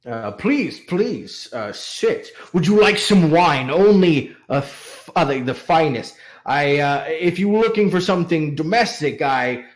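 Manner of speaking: lightly voiced self-important, eager host; pompous merchant. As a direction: preen a little, then play the generous host. Plays vain merchant flattered, offering wine.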